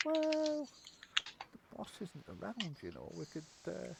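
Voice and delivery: high, conspiratorial goblin; sly goblin, high then dropping soft. Acted. Second goblin to the first, a high sly goblin voice.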